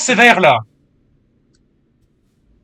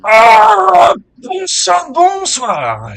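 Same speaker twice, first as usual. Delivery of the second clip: much higher sing-song hello; squeaky exaggerated bonsoir; high-pitched greeting; 14 semitones higher, 9 dB louder, much slower than usual. Greeting viewers in silly voice.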